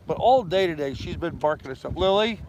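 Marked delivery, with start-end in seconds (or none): 1.9-2.4 firm command. Real, not acted. Commanding the dog.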